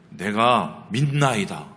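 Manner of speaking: slow, earnest confession of faith; earnest plea. Retold or imitated. Pastor voicing the desperate father, slow earnest plea. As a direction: say it slowly, meaning every word.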